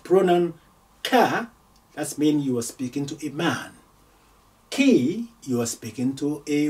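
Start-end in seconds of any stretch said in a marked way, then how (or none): 1.0-1.5 "ka" said clearly as the ending; ending ka for a man. Shown as a demonstration. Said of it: "Note the ending". 4.7-5.3 "Ki" said clearly as the ending; ending ki for a woman. Shown as a demonstration. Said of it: "Note the ending".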